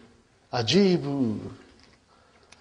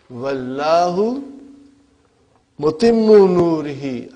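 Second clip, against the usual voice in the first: Quran recitation; 6 dB louder, faster than usual. Acted. Quoting Quran verse aloud.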